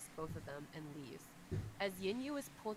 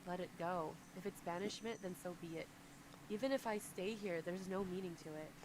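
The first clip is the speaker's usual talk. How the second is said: resigned sigh. Acted. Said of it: "But Yin Yu sighs".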